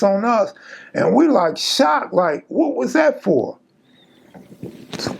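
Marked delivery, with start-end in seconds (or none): 1.6-3.6 shocked. Retold or imitated. Hit with piss, shocked.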